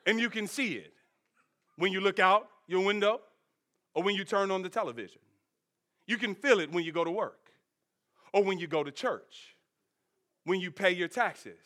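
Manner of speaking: imitating Morpheus. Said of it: "Morpheus says".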